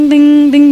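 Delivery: ringing "teng" like a bell; imitated clock chime. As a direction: sound out a midnight clock strike. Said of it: "kan bunyi teng". (tiruan dentang jam)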